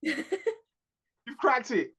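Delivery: very slow, stretched-out repeat; milk each word slowly; slow, savouring the joke; drawn out. Real, not acted.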